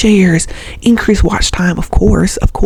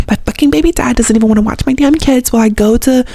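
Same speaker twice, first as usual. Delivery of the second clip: higher-pitched mock griping; champagne problems complaint; 4 semitones higher than usual. Rich teen mom griping about baby dad, mock complaint. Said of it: "now it's like you have champagne problems".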